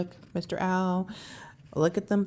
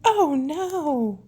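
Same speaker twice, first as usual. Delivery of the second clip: alarmed oh no; 6 semitones higher, 4 dB louder than usual. Real, not acted. Spell going wrong.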